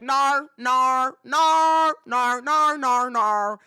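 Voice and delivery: loud, drawn-out mock British "no"; toddler's British accent. Two-year-old refusing to do his work, loud British accent. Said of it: "now he's picked it up".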